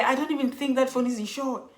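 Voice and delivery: mock-distraught recounting; retold breakdown. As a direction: act out upset disbelief, slowing on the repeat. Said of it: "I think I broke down".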